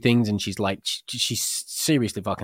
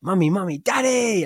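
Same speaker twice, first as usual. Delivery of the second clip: imitating child; 10 semitones higher, 4 dB louder than usual. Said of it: "And she's like".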